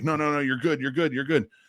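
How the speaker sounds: mock frightened voice. Retelling how a scared man waved off payment: imitating a scared man. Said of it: "he's scared that I'm gonna get mad".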